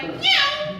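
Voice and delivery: very high, loud meow; kitten meow. Retold or imitated. The kitten answering its new name, high meow. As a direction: mew like a little kitten. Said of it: "he was like".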